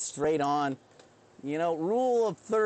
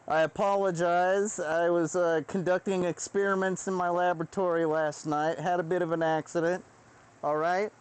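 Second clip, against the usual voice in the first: a lightly raised mock professor voice, brightly settling a class; stern but goofy lecturer calming his class; 2 semitones higher than usual. Professor telling the class to settle down, mock lecturer voice. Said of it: "I'd say shit like".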